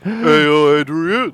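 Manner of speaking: hint of a movie boxer's call; lightly voiced Sylvester Stallone. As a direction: call out lightly like a screen tough guy. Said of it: "You can do a Sylvester Stallone impression".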